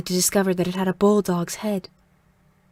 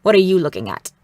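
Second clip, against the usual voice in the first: raspy voice; 6 dB louder than usual. A narrator's reading. Mother confronts the girl staring at her, in a raspy voice. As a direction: rasp out a sharp demand. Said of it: "in that raspy voice of hers".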